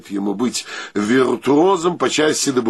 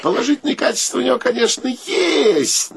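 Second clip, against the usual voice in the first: mock praise; 11 semitones higher than usual. The speaker mock-praising his friend.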